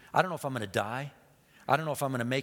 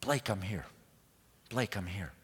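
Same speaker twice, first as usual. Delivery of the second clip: dad calling out; 6 semitones lower, 6 dB quieter than usual. Retold or imitated. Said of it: "the voice of Dad cries out".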